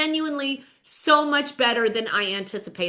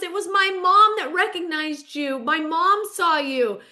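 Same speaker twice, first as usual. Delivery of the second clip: excited imitation; 5 semitones higher than usual. Retelling Melissa's excited news.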